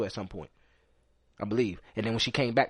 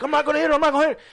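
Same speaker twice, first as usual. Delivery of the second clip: high, insistent denial; mock protesting woman; 13 semitones higher, 5 dB louder, faster than usual. Narrator mimicking the woman's high false promise. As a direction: imitate her promising sweetly.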